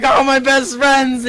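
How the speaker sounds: high, loud, stretched-out delight; hammed-up childlike joy; happy gushing. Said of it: "you're happy".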